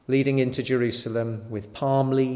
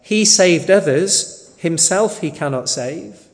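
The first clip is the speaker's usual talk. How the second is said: raised, emphatic taunt read from scripture; retold mocking; 4 semitones higher, 5 dB louder than usual. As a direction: quote the mockers with mild scorn, higher and firmer. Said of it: "mocking with the scribes and elders".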